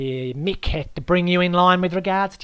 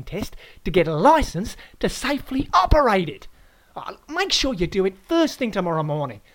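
louder, higher Aussie laying down the rules; loud Aussie lecture; 4 semitones higher, 8 dB louder than usual. Acted. The host lectures the guest on esky rules, loud and bossy. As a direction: hector him like a know-all.

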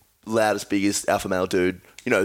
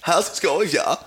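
higher-pitched camp German voice; eccentric German accent; 7 semitones higher than usual. Acted. Host shows off his niche eccentric German accent. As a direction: put on a campy German accent. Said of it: "homosexual German accent".

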